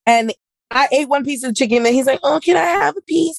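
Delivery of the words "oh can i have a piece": much higher, wheedling ask; mock begging. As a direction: beg for a bite like a needy boyfriend. Mimicking boyfriend begging for chicken.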